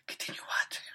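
breathy unvoiced whisper. Real, not acted. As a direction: whisper the question. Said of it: "Why are you whispering?".

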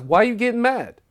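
high, loud imitation of protesting; mock protest. Mondo defending himself in the friend's house, indignant.

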